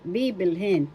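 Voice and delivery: "Bibilhin" with the first "bi" held and stressed; BII-bil-hin, falling at the end; stress on first syllable. Shown as a demonstration. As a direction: model "Bibilhin", accent at the start. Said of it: "Pronounce it".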